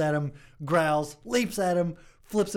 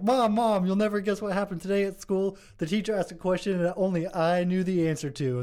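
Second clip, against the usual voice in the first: lightly voiced eager child, a bit higher; a hint of a proud little kid; excited kid; 4 semitones higher than usual. Kid to his mom, lightly eager child voice. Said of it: "he's like".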